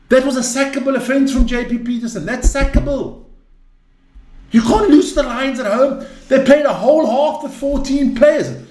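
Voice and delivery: boiling over. Real, not acted. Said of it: "I'm boiling".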